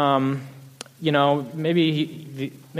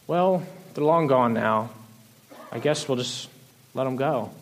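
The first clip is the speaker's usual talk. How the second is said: soft, halting mock resignation; resigned giving up; 3 semitones lower, 4 dB quieter than usual. God supposedly giving up on the long gone, mock resigned. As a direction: let it trail off as if giving up.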